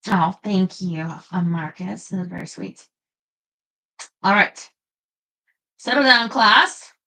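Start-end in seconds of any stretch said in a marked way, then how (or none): 4.2-6.9 droning teacher impression. Mock teacher addressing viewers.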